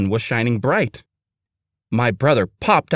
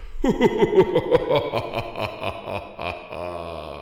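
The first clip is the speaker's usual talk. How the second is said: soft laugh; 3 semitones lower, 5 dB quieter than usual. Acted. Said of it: "My brother laughed".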